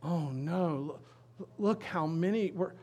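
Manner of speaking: stammering mock panic; imitated fearful "uh-oh"; acted alarm. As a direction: play a servant stumbling over his dismay. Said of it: "looks out and he's like".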